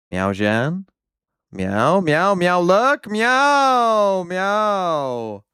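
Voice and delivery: lightly meowed commentary; playful cat meows over the game. Pretend. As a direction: call the round in meows like a cat. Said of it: "That's as a cat".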